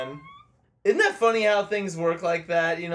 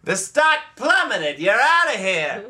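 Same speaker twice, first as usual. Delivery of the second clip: loud, high, swooping tirade; hammed-up firing speech at full volume; angry boss; 10 semitones higher, 7 dB louder than usual. Boss throwing Frank out after stock crash, mock fury.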